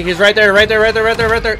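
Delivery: high, loud urgent callout; excited shouting. Real, not acted. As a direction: yell it out, pitch up, urgent. Spotting enemy mid-fight.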